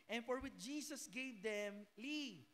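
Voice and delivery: slow, weighty reading of the verse; slow scripture reading. Acted. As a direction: read each word out deliberately. (mabagal na pagbasa ng talata)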